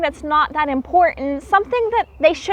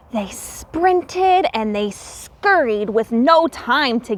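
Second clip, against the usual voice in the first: storybook narration; slower than usual. A narrator's reading. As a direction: draw out the suspense as the pine cone comes loose.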